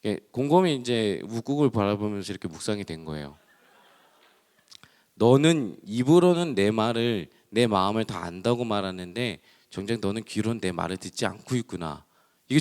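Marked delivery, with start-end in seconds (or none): 5.1-12.0 voice of the Lord. Retold or imitated. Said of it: "주님의 음성처럼 들렸어요". (주님의 음성처럼 천천히 엄숙하게)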